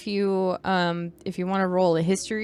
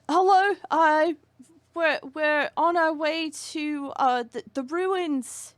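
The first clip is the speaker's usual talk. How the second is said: higher, hesitant British pilgrim voice; British traveler; 7 semitones higher than usual. Acted. Pilgrim asking strangers the way to the ruins, British and halting. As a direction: stumble through it as a British traveler. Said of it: "British, apparently".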